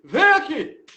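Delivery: loud and commanding, in the master's voice; stern summons. Retold or imitated. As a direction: bark it like the master calling the student. Sensei summons him. (ordem firme do mestre, em voz alta)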